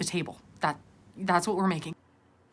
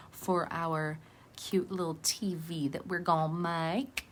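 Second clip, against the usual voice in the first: playful Southern twang, drawn out; Southern accent; 3 dB quieter, slower than usual. Pretend. Talking viewers through the TV stand, Southern accent. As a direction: stretch it into a light Southern accent. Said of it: "this random Southern accent".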